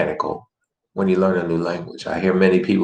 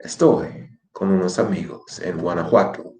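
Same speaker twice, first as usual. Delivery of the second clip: reading voice. Shown as a demonstration. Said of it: "First time reading voice".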